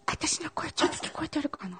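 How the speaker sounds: very soft whispered mic check; barely-there whisper; tiny hushed voice. Pretend. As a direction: whisper it as a playful volume test. Quiet mic test after moving back.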